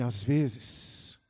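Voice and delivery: low, slow, weighty quote; hushed, measured pronouncement; professor's solemn saying. Retold or imitated. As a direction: quote a teacher slowly and quietly, drawing out each phrase. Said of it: "Ele disse assim".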